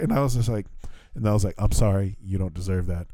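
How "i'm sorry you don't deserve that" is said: lower, subdued backing down; retold contrite apology. Traveler apologizing to airline staff after snapping, subdued. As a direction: drop the voice into a sheepish apology.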